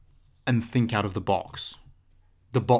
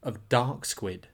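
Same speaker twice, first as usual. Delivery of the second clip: ominous reading; slower than usual. Pretend. Reading a note written in blood.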